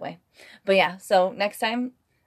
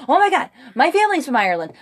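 gushing American; 6 semitones higher, 5 dB louder, faster than usual. Retold or imitated. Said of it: "people are like".

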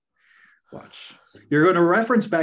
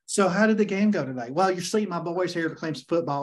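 mock Southern coach drawl; 2 semitones higher than usual. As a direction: lay the Southern accent on thick. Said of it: "he really lays the accent on".

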